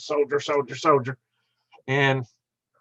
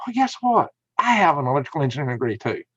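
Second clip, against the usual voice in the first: retold comeback; faster than usual. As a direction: fire back a retold gotcha. Retelling his comeback to a put-down.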